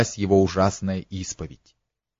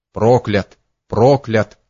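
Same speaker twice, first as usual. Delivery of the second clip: mild mutter; 4 dB louder, slower than usual. A narrator's reading. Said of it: "бормотал князь".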